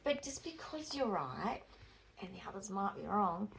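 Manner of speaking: soft, measured counsel; retold lecturer's advice. Lecturer advising an outspoken student, softly measured. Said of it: "And he says".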